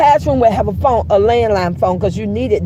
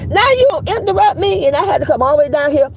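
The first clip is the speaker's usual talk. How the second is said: scolding; 3 semitones higher than usual. Retold or imitated. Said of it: "let me tell you something".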